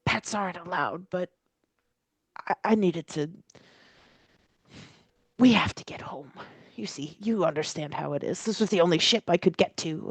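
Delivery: put-on old man voice. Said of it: "the old man says".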